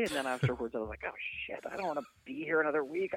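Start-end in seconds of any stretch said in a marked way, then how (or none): 1.1-3.1 high, quick mock panic; high-pitched inner complaint; mock dismay. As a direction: blurt it out as dawning dread. Acted dismayed thought after agreeing to stay.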